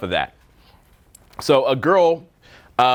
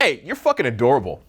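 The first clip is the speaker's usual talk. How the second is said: offhand genuine compliment. Shown as a demonstration. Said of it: "Versus like".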